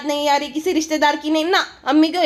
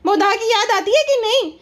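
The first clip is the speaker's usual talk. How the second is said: a hint of a higher childish voice; lightly ape her sing-song question; mock vlogger asking; 6 semitones higher than usual. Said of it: "अपने पापा से भी पूछ रही थी".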